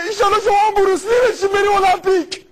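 fast, high, hammed-up shout of praise; high fast excited shout; mock cheer. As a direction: cheer them on like a game-show host.

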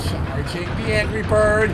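charging announcement. Pretend. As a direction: stretch it as the shot winds up.

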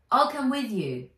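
put-on high, loud eager girl; keen young girl offering. Nat insists.

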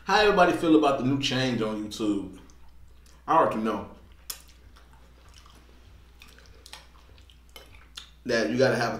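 speaking between bites; talking while chewing. Real, not acted. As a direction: mouth partly full of food. Seen 0: fork at mouth, jaw working on food while talking.

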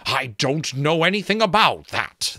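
a creaky talking skull explaining. Acted. Skull character voice.

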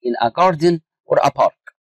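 slow dictation pace. Shown as a demonstration. Teacher reading a definition to students, slow dictation. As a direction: read out very slowly, word by word. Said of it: "teacher reads definition slowly".

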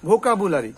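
ভোকাবুলারি as "bho-ka-bu-la-ri"; common mispronunciation. Shown as a demonstration. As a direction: open "bu-la-ri" in ভোকাবুলারি. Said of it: "ভোকাবুলারি বলি তো".

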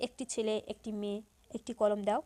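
একটি said as "ekti"; natural e vowel. Shown as a demonstration. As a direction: keep a pure "e" at the start of একটি. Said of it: "উচ্চারণ করি এভাবে".

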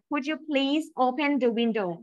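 slow, courteous ask with please; polite request. Shown as a demonstration. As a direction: ask gently and slowly. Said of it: "คำพูดที่มัน polite".

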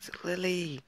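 put-on high whispered girl; breathy high-pitched girl voice; girl's voice. Voicing the game heroine, whispered high.

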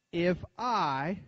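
"if I" set apart for emphasis; deliberate emphasis on "if I"; word-by-word emphasis. Shown as a demonstration. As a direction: give "if" and "I" each their own weight. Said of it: "put emphasis on each word".

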